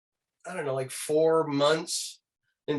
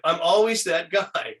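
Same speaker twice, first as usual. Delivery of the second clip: laughing; 3 semitones higher, 4 dB louder, slower than usual. Real, not acted.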